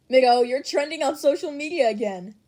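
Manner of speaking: put-on loud, bright hype in a teen's voice; excited chat message. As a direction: call it out like big news.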